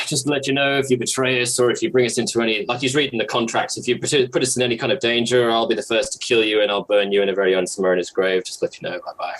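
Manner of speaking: drudgy warning. Acted. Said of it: "in a very kind of drudgy way".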